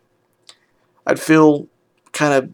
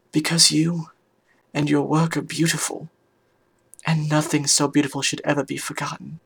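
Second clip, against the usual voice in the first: sharp, clear voice; 2 semitones higher, 7 dB quieter than usual. Acted. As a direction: reassure in a clear, measured voice. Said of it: "in that sharp, clear voice I know".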